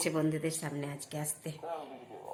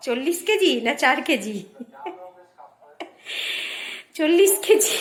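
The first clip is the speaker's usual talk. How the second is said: louder, higher, laughing surprise; teasing disbelief; 6 semitones higher, 7 dB louder than usual. Real, not acted. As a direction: tease her in mock disbelief. Teasing disbelief about weight. (অবাক হয়ে হাসতে হাসতে ঠাট্টা)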